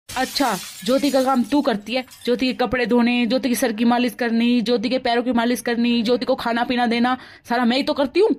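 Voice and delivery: loud, listing grievances; angry retort. Acted. Mother-in-law shouting back at daughter-in-law, angry. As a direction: shout back each complaint.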